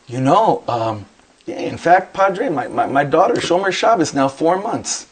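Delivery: lightly imitated SoCal store clerk; casual Southern California lilt, pitch jumping up; Southern Californian accent. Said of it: "like, this Southern Californian accent".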